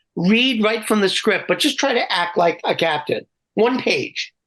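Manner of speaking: ordinary talk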